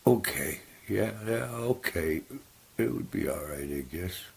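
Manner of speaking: the gullible raccoon agreeing reluctantly; hesitant raccoon. Acted. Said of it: "He goes".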